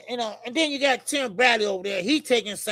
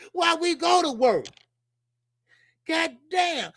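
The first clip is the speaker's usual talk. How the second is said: ranting shout; 6 semitones higher than usual. Real, not acted. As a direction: shout the question at the crowd. Ranting about work.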